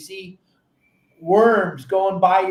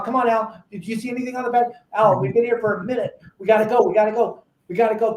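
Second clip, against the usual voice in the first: fast, higher, pushing to leave; antsy urging; 4 semitones higher, faster than usual. Retold or imitated. Skipper urging Al to leave before the other boat, fast and antsy. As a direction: hurry your buddy along before rivals arrive. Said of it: "I'm, like, looking at Al".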